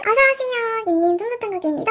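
high singsong welcome to the store; cheery shop greeting. Acted. Shopkeeper welcoming a customer in, high singsong.

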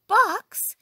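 high, loud yelp of disbelief; startled exclamation. A narrator's reading. Employer hears chicken is boxed, exclaims in high shock. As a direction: burst out with it, shocked. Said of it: "exclaimed Missus Rogers".

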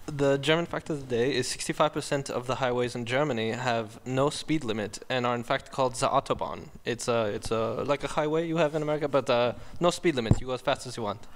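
lightly put-on German accent. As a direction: recite a fact in a German accent. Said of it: "do it in your German accent".

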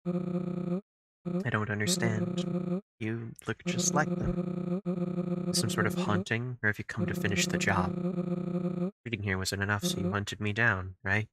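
sorrowful weary character. Acted. Reads game character dialogue.

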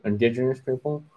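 tentative question. Real, not acted. Corrected co-host checks the term, tentative and soft.

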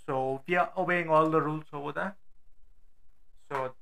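muffled from inside a helmet; talking with a helmet on. Real, not acted. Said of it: "It would sound weird".

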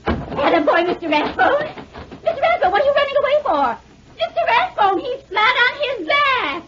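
high, fast, breathless cry in the scuffle; excited calling out. Acted. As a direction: yell after him in a panic. Lavender calls during the fight.

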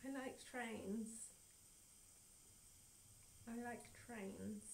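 slow, soft stuck-on-repeat voice; looping trance voice. Pretend. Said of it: "repeat ... exact same tone of voice".

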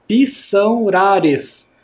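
very slow, syllable by syllable; slow syllable reading. Shown as a demonstration. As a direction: drag out "pissaurares" one piece at a time. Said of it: "Olha a primeira". (bem devagar, sílaba por sílaba)

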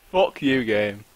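swearing through a laugh; laughing curse at the game. Real, not acted.

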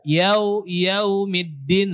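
"Yau" sliding to a lax o, like "yao"; o instead of waw. Shown as a demonstration. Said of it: "bukan o".

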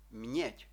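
"М'єдь" as mnyedʲ, with palatalized consonants; soft reading. Shown as a demonstration. Teacher modelling the Czech word for learners, softened consonants. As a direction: read "М'єдь" softly palatalized, not hard. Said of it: "то цю літеру мусимо читати м'яко".

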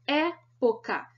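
"Época" slow, first syllable "É" stressed and held; syllable stress demo. Shown as a demonstration. Teacher giving the matching answer, "Época" slowly stressed on its first syllable. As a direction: separate the syllables of "Época", leaning on "É". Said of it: "tenha a antepenúltima sílaba tônica".

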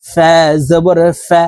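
careful, clean f in ফা; lip-and-teeth ফা. Shown as a demonstration. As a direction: show ফা as a crisp lip-teeth sound. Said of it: "উপরের দাঁত নিচে ঠোঁটের".

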